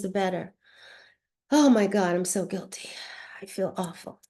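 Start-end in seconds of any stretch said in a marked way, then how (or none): 1.5-4.2 sighed confession fading to a near whisper; guilt-ridden. Shown as a demonstration. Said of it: "get out with your emotions".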